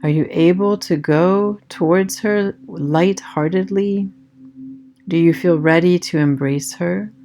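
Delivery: calm meditation voice with long pauses; guided meditation. Acted. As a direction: guide them gently inward, leaving space after each phrase.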